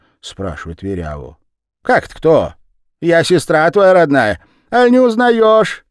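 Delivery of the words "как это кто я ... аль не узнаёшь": высоко и громко, с напором; нагло притвориться сестрой; наглая Верява. A narrator's reading. Верява выдаёт себя за сестру. (Верява громко и нагло врёт брату)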